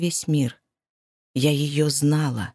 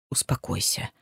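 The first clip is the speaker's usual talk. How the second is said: low soothing; 10 semitones lower, 8 dB quieter than usual. Acted. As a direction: lower and softer, calming her. Man soothing panicked woman.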